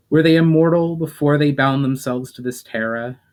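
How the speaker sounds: elf Valinor. Acted. Valinor the elf asks the demon, lightly voiced.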